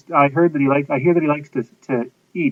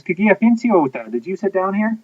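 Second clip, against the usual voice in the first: a hint of Papa Bear; 4 semitones higher than usual. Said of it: "Papa Bear looks at Goldilocks and says".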